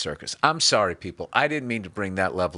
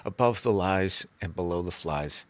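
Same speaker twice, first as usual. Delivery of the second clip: Above the Lies and Below the Flies said lower and softer with a falling end; soft guru saying title; 3 semitones lower, 4 dB quieter than usual. Pretend. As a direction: present your own title calmly like a guru. Author says own title.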